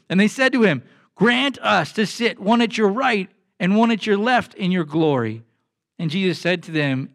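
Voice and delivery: a pastor reading Mark ten from the pulpit; scripture reading. Acted. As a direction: read the passage to the congregation. Reads Mark chapter ten aloud.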